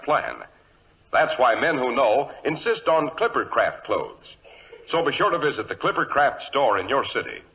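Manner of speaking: smooth radio announcer selling suits; ad read. Acted. Announcer selling Clippercraft suits to listeners, upbeat ad read. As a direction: pitch it like a sponsor spot.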